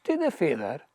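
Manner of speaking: rhythmic Scots poem reading aloud; lilting recital of Scots verse. Acted. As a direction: recite in measured verse, lingering on line endings.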